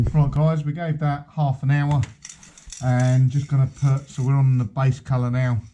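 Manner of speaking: muffled through a paint mask; talking through mask. Real, not acted. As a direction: speak muffled behind a face mask. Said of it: "speaking through the mask".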